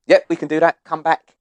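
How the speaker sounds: light American shop assistant voice; imitating a friendly American Apple worker; mild American accent, upbeat. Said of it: "Obviously in his American accent".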